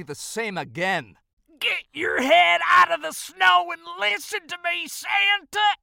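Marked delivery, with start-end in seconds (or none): 1.6-5.8 high, loud, exasperated elf; angry growl. Acted. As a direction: snap at him in a high, raised voice. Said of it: "Crandall growled".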